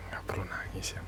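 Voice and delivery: hushed whisper, no voice. Acted. Telling a crying partner not to cry, whispered. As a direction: whisper to soothe the tears.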